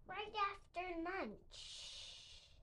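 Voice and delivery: slow, soft sleepy serpent; lazy snake voice. A narrator's reading. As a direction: draw it out like a full snake. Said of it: "said the snake".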